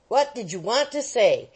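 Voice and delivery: a firmer, pressing demand. Acted. Wardle shaking the boy for an answer, firm demand. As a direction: press him hard for an answer. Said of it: "demanded Wardle, shaking him".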